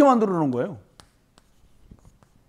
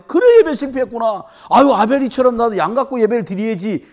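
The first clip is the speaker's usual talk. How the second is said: Cain's regret; 2 semitones higher, 6 dB louder than usual. Acted. Cain voiced realizing his failure.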